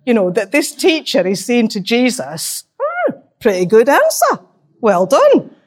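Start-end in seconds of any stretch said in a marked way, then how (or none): 2.8-5.5 a patronising pat on the head, pitched higher and louder; a mild mock Cumbrian condescension; condescending. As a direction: talk down to him like a smug examiner. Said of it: "with a kind of Scottish stroke Cumbrian accent, it sounds a little bit condescending".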